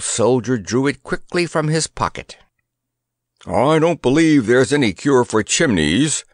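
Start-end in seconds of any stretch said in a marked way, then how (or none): 3.5-6.2 puffing. Acted. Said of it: "puffed Grandpa".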